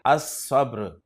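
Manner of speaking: अस्सब्र said as-sabr, s doubled; no l sound in अस्सब्र; अस्सब्र: lam swallowed into a long s; Arabic article demo. Shown as a demonstration. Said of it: "तो लाम को नहीं पढ़ेंगे".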